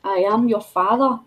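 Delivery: lightly voiced film villain; half-hearted villain intoning; Darth Vader impression. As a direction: repeat the bad impression, only faintly in character. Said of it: "Darth Vader".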